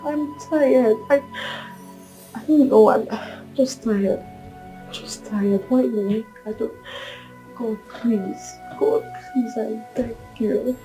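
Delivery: soft, spent pleading; weary despair. Acted. Woman asking God why she failed again, weary despair. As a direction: plead quietly, worn out with grief.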